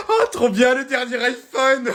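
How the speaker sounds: high, slow delighted squeal; squealing excitement. Acted. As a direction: gush over it like a kid. Mother squeals at phone. (cri de joie aigu)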